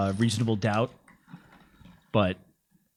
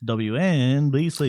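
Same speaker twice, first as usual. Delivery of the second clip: radio call letters; slower than usual. Pretend. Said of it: "call signal".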